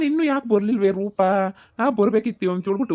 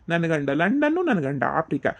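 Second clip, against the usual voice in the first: mocking sing-song. Brother mimics sisters boasting.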